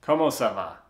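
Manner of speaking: French said in a plain American accent; "Comment ça va" with hard American vowels. Shown as a demonstration. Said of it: "with my French with my American accent".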